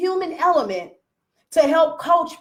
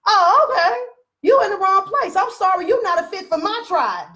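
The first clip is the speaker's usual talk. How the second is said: mock dismissal; 6 semitones higher than usual. Dismissing the member.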